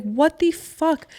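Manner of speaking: high, drawn-out disbelief; shocked disbelief. Retold or imitated. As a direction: stretch it out in shock. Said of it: "I was like".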